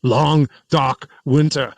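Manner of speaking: lightly mimicked politician, drawn out; mock-solemn quote; Biden. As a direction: draw the phrase out in mock gravity. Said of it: "because Biden with his long".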